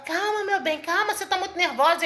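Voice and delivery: lightly voiced husband urging calm; retold pleading, lifted in pitch; soothing husband. Acted husband calming his wife.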